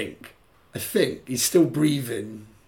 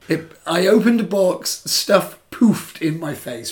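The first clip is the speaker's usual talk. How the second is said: husky voice; 3 semitones higher, 4 dB louder than usual. Shown as a demonstration. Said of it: "let me say it again in my husky".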